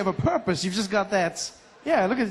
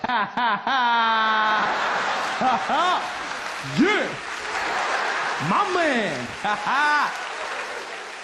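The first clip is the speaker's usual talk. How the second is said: laughing black; 4 semitones higher, much slower than usual. Pretend. Comic practising his cool American laugh. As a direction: throw your head back in a big showy laugh. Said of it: "I was even laughing black".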